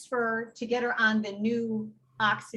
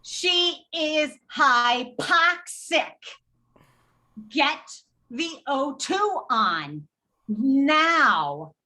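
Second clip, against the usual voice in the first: slow, louder, hammering each word; angry order; 2 semitones higher, 5 dB louder, much slower than usual. Retold or imitated. Nurse snapping orders at slow paramedics, slow loud fury. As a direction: blow a gasket at the paramedics. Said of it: "I blew a little gasket".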